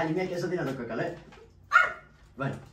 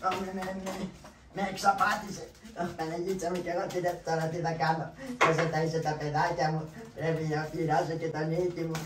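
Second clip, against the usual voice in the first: distraught wail; 3 semitones higher than usual. Acted. Cheated man laments his loss.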